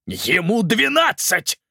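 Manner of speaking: high, loud and slow outraged cry; furious shout. A narrator's reading. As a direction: shout it at the queen in fury. Malcolm furious about nephew. (яростный крик, высоко и громко)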